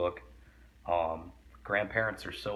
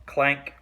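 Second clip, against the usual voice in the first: clank sound word; 7 semitones higher, 8 dB louder than usual. Shown as a demonstration. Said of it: "clank is an onomatopoeia".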